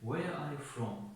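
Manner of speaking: very slow, every word spaced out; drawn out so learners hear each word; slow model question. Shown as a demonstration. Teacher modelling the question for the class, very slowly. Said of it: "این کلمه چه ترجمه کنیم".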